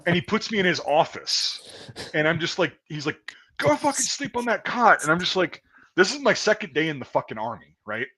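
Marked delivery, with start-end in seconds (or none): 3.6-5.0 high-pitched imitation of a barked command; drill sergeant order. Drill sergeant sending private to the office cot, barking.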